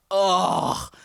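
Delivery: drawn-out grossed-out "ugh"; revolted "ugh"; disgusted groan. Retold or imitated. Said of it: "I was so grossed out".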